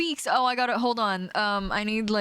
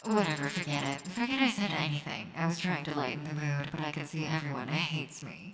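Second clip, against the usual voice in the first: sulky; 6 dB quieter than usual. Acted. Robot judge sulks after joke.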